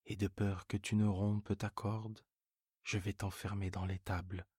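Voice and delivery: decide firmly to lock her in; exasperated old farmer. Acted. Seguin exasperated, locks goat up.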